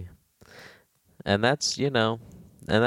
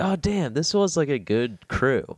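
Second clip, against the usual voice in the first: high-pitched voice; 8 semitones higher than usual. Retold or imitated. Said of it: "We would have all just been like".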